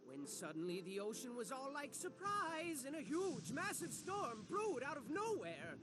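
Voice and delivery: storyteller building up in volume; dramatic storm narration. Acted. Narrator springs a huge storm on the children, dramatic storytelling.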